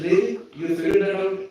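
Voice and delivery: high, loud astonished "Really?"; mock surprise. Preacher retelling his shock at Jay, high loud surprise. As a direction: act amazed at what he figured out. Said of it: "I said".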